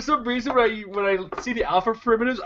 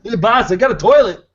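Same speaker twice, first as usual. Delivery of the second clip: dopey henchman voice, a bit louder; dumb guy voice; 3 semitones higher, 5 dB louder than usual. Acted. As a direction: play it like a dim-witted goon. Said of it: "best dumb guy voice".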